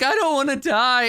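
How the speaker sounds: high-pitched, lightly acted whine; mock blubbering. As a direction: imitate a blubbering kid. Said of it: "like, blubbering and like".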